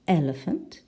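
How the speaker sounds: "elephant" stressed on the first syllable, rising at the end. Shown as a demonstration. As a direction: lean on the opening of "elephant". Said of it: "the first syllable".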